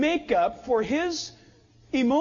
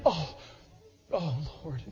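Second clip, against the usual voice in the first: a much lower, softer mock sob with a laugh through it; imitating a sob; 8 semitones lower, 8 dB quieter than usual. Mimicking the bawling friend sitting down, half-laughing sob. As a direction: groan out "oh, Lord" like a crying friend, half-laughing. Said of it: "he's bawling".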